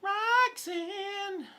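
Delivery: high, loud call to the dog. Real, not acted. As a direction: call her name across the room. Calling the dog's name.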